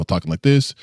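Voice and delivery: talking low, within natural range; normal register, low. Shown as a demonstration. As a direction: pitch it down, still your own voice. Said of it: "it's within my normal register".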